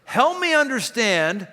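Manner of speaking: slow accusing Help me understand; demanding tone. Shown as a demonstration. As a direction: press them with it. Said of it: "immediately putting me on my heels".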